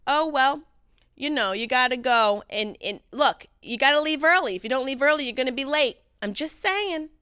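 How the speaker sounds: a lightly voiced advice-giving mother; imitating mom. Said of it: "She'd be like".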